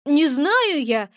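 slow, cross little blurt; a hint of a sulky imp snapping; angry blurt. Gremlin blurts that he does not know, cross. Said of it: "совершенно сердито брякнул мелкий".

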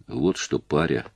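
said softly and low; hushed, ominous calm; quiet. A narrator's reading. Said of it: "тихо сказал он".

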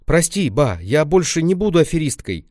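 put-on girl's apology. Lenka apologizes to grandma, childish pleading. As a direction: apologize like a small girl.

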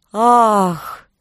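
airy gasping sigh; a faint breathy sigh on the wind; ghostly sigh. Acted. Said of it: "донёс до её ушей вздох".

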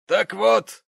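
high, loud indignant gentleman; pompous gentleman. Acted. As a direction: slap the table with words. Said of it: "сказал джентльмен".

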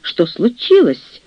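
waking with a start, high and slow; startled cry. A narrator's reading. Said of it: "вскрикнула госпожа Бернштейн, просыпаясь".

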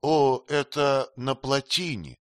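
a startled exclaim. A narrator's reading. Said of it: "вскрикнула Ситабхай". (вскрикнула, громче и выше)

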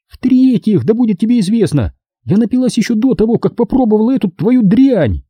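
high-pitched tipsy woman arguing point by point; Caroline, tipsy and offended. Acted. Drunk woman defending herself to her best friend, high and offended. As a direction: protest in a high, offended character voice.

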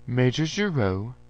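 a robot speaking smoothly like a human, unhurried; smooth, slow machine politeness; flowing human-like robot voice. A narrator's reading. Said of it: "it asked in a flowing human voice".

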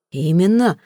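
a mild growl of agreement; father growling at the suitor, mildly. Acted. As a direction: grumble it with a touch of menace. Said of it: "прорычал мистер Флип".

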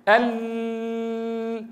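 long ال- with a strangled, closed-off L; choked lam. Shown as a demonstration. Teacher showing students the faulty sound, choked ال-. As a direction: hold the L of ال- as if its sound were trapped. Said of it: "بتحس مخنوق صوت اللام".

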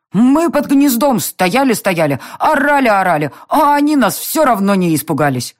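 put-on a small kid proudly telling an adventure; excited little girl. A narrator's reading. Irma tells of the crows.

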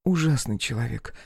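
mild scorn, drawn out at the end; dismissive huff about someone she despises; scornful snort. Acted. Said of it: "фыркнула она".

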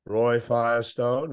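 slow, measured impression of an old ballplayer; Joe DiMaggio. DiMaggio greeting Roy in the media line, slow imitation. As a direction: draw the name out slowly, old-timer style. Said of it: "that's how he talks".

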